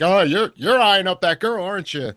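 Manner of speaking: lightly acted needling accusation; giving him shit. Woman accusing him of eyeing up a girl, needling. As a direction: needle him like a suspicious partner. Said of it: "she's already giving them shit".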